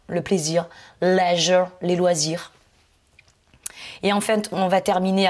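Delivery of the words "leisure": Leisure said with a voiced zh; zh sound. Shown as a demonstration. Teacher models the zh sound for students. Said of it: "le S qui se prononce comme un je".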